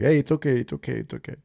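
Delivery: soothing, fading to a hush; reassuring. Retold or imitated. Dad retelling comforting his scared daughter, soft reassurance. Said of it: "calming myself down and telling her".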